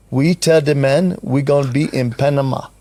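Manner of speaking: light Russian accent, barely put on; a hint of a Russian accent, steady and firm. The speaker quoting his partner's promise in a light Russian accent. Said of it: "I'm gonna use my Russian accent".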